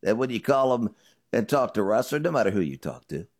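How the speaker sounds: punchy, loud sponsor read; emphatic host-read commercial; radio ad read. Acted. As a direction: sell it firmly, like a radio host's endorsement. Reads a sponsor ad.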